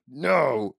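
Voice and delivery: a mild mock scolding; retold scolding. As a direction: scold him for the abbreviation.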